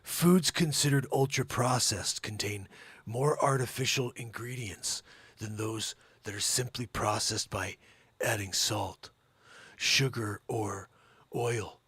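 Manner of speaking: lightly voiced Keanu Reeves read; a hint of a low, even Keanu read. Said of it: "When Keanu Reeves is doing the read".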